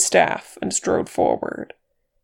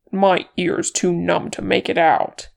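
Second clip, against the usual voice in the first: cursing; 4 dB louder than usual. Acted. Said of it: "he cursed".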